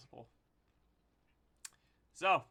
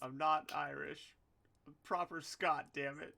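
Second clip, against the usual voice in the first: indignant would-be Scot; attempted Scottish accent; 2 semitones higher than usual. Defending a Scottish accent mistaken for Irish, mock indignant. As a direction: protest in a shaky attempt at Scottish. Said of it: "takes the piss on all my accents".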